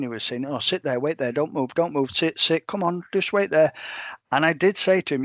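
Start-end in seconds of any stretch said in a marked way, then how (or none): 0.5-3.7 mock running patter of dog commands; imitated non-stop chatter. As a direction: mimic a handler prattling at his dog. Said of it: "talking to his dog non-stop".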